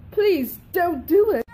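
desperate begging, tearful and loud; crying plea. Acted. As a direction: beg through tears. Begging in a panic.

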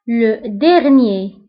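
drawn-out, careful Le dernier; teacher drawing out Le dernier; slow model word. Shown as a demonstration. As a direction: say Le dernier very slowly, syllable by syllable. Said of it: "teacher models the word slowly".

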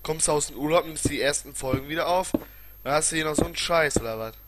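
loud, exasperated complaining; angry rant. Real, not acted. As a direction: rant at the lagging game. Frustrated rant at game lag. (wütend schimpfend)

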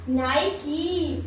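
नाइकी as two slow beats, NAI-KEE; slow syllables. Shown as a demonstration. Teacher repeating the name for viewers, slowly. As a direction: draw out both halves of नाइकी. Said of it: "N आई और की".

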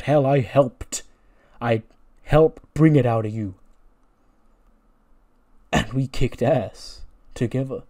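a lightly voiced wrestler cutting a promo. Wrestler addressing his other side in a promo. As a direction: lean into a dramatic heel speech.

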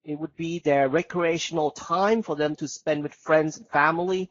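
slow, clear exam-style demo; unhurried teacher demonstration of a full answer; slow model answer. Shown as a demonstration. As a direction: model a relaxed, deliberate answer. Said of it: "หมายความว่าไงวะ?".

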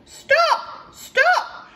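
high, loud cat yowl then slow; a hungry cat calling. Acted. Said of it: "meowed the cat".

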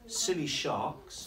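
slow, drawn-out rhyme reading; reading to children. A narrator's reading. Teacher reading rhymes to young pupils, slow and playful. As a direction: linger on each silly line. Reading rhyming picture book aloud.

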